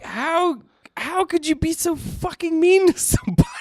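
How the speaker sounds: high, far-off mock voice of disbelief; incredulous outrage. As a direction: squeak out the disbelief. Mocking shocked customer complaint.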